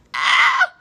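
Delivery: high, loud shriek of disbelief; shocked outrage. Retold or imitated. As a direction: gasp it out, scandalized. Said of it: "I was like".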